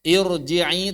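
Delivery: IRJI'I, slow, with a heavy r; thick r. Shown as a demonstration. Teacher lists false kasrah examples, thick r. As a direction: darken the r in "Irji'i".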